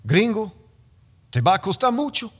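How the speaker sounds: lightly voiced threatening cop; stern police captain. Captain warning the gringo at roadside, mock stern. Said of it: "And he's like".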